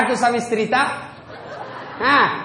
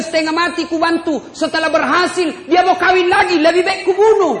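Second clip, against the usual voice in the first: higher, louder quoted wife; retold murderous wife; 8 semitones higher, 6 dB louder than usual. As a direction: voice her cold justification. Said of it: "Dia bilang".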